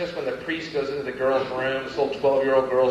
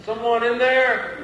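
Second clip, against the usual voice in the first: higher, slow timid maid query; hotel maid; 7 semitones higher, slower than usual. Retold or imitated. Maid checking the room in the morning, timid higher call. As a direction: ask through the chained door. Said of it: "in the morning going".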